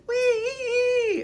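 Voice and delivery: high, loud squeal; long high squeal. A narrator's reading. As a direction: squeal out in pain. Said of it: "Beatrice heard Abel squeal".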